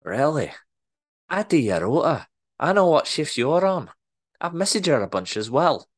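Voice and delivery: Scottish boss catches out worker's excuse; pushy Scottish accent. Acted. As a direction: call his bluff in Scottish. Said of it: "better Scottish accent than I'm portraying".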